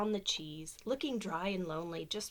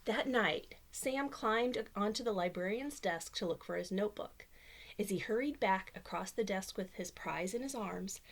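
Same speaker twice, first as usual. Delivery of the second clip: lively storybook reading voice; reading to children; 2 semitones higher than usual. Acted. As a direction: read it like bedtime story time. Reads picture book aloud.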